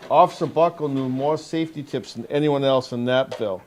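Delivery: measured picture-book read-aloud with lifted key words; storybook narration for a young audience; reading to children. Acted. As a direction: read it out clearly to a group of young kids. Officer reads picture book to children.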